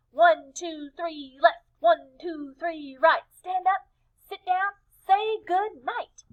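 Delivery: high, tidy sing-song cheer; proper penguin cheer. Acted. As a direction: neat chant, nicely in step. Team finally gets cheer right.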